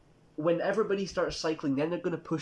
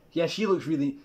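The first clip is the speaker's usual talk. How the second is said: laughing, louder put-on gush; mocking laugh; 3 semitones higher, 5 dB louder than usual. A man seeing a trans person, mocking laugh. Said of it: "Is he thinking".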